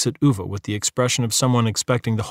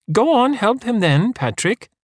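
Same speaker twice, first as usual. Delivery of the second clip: high, slow urging call; bursting out; 12 semitones higher than usual. A narrator's reading. Wife urging her husband, high burst. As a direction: burst out at him. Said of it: "Parvana bursts out".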